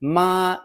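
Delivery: "ma" high and level; first tone. Shown as a demonstration. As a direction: hold "ma" steady without falling. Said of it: "With the first tone".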